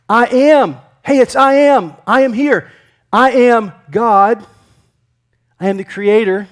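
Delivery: loud, high proclamation, ringing out; Jesus declaring himself. Acted. Jesus announcing himself to frightened disciples, loud and commanding. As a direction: call it out with authority, drawing out the words. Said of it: "I believe that Jesus said it this way".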